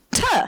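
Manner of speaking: "Tuh." said high with a short uh after the t; consonant with added uh. Retold or imitated. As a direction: say "Tuh." as t plus a clear uh vowel. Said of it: "They were putting the uh at the end of it".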